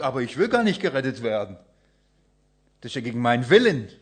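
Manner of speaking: a man refusing to be saved; reluctant protest. Acted.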